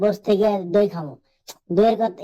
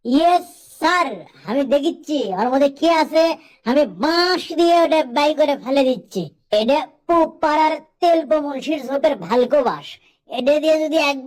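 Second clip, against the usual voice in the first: overeager soldier answer; eager yes sir; 4 semitones higher than usual. Acted. Eager nervous soldier to officer.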